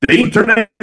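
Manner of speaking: muffled bad mic; underwater. Real, not acted. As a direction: sound like you're underwater. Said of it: "it sounds like you're underwater here".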